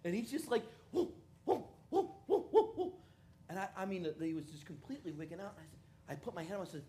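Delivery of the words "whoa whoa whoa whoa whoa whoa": high friend amazed at the dancing dot; stoned friend. Retold or imitated. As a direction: freak out like you're seeing things.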